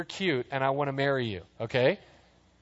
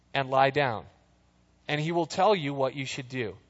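measured, even Bible reading; calm scripture read. Acted. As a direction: read the passage steadily to the congregation. Reads scripture aloud.

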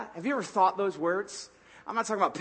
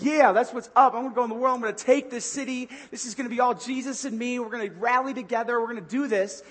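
mock hype, a bit higher; pumped-up churchgoer; 4 semitones higher than usual. Churchgoer after Sunday service, mock hyped. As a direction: sound pumped, ready to take the city. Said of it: "you're like".

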